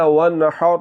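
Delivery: وَالنَّحْرِ with the ha from mid-throat; Quranic recitation. Shown as a demonstration. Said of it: "حلق کے درمیان والے حصے سے آواز کو نکالتے ہوئے".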